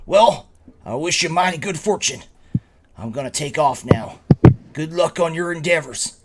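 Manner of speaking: lightly voiced ranch hand, lilting upward; a hearty tip-of-the-hat farewell; courteous ranch hand. Ranch hand bidding the adventurers good fortune, lightly acted and courteous.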